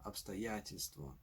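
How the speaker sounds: "обстоятельство" stressed on Я; обстоЯтельство, falling away after the stress; stress before tel. Shown as a demonstration. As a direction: land on Я in "обстоятельство", just before тель. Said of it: "previous syllable is likely to be stressed".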